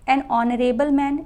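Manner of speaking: slow, clear "an on-or-able man" with no h; silent h in honorable. Shown as a demonstration. Teacher models the silent h for students. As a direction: begin honorable on the vowel, no h. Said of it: "इसको हॉनरेबल नहीं बोलेंगे".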